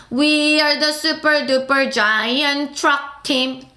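very slow, word by word; teacher slowly reading a song line; slow lyric reading. Shown as a demonstration. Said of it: "가사 한번 쫙 보고 다시 불러볼게요".

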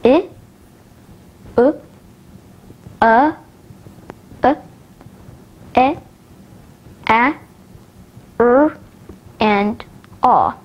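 each vowel from "I" to "aw" isolated, with pauses; short separate vowel sounds, "I" as in fish through "aw" as in stop; short vowel recap. Shown as a demonstration. Teacher recapping short vowels, each sound said on its own. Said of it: "let's recap and hear the short vowels".

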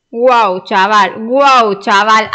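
loud amazed wow; excited shout. Real, not acted. Amazed at rare item.

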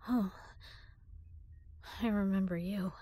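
normal talking voice

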